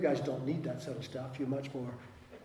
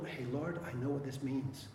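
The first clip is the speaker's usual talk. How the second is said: humble prayer; 6 dB quieter than usual. Pretend.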